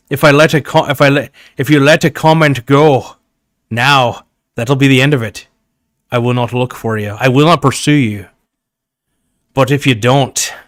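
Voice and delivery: hammed-up Sean Connery accent warning; Sean Connery impression. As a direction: play it like a Sean Connery villain call. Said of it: "so I'm doing this as, as Sean Connery".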